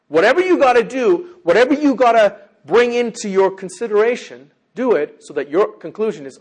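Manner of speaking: loud, high-pitched preaching; forceful exhortation. Real, not acted. Preacher urges listeners to do whatever it takes, forceful exhortation. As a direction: press every phrase hard on the congregation. Preacher urging the congregation hard.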